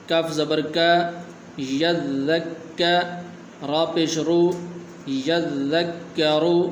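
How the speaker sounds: slow letter-by-letter spelling, like a teacher; slow spelling drill. Shown as a demonstration. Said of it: "اگلا لفظ".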